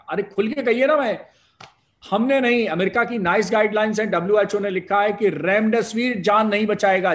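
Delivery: speaking up loudly against the critics; forceful protest. Real, not acted. Emphatic rebuttal to critics.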